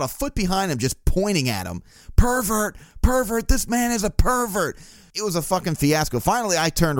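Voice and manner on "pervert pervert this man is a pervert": high-pitched imitated public accusation; mock yelling. Woman follows his friend pointing, mock accusing yell. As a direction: mimic her crying out high to everyone around. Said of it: "starts yelling "pervert" again".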